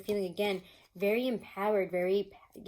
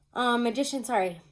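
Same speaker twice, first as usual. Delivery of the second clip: teary laughing; 4 semitones higher, 6 dB louder than usual. Real, not acted. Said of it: "teared up 'cause I was laughing".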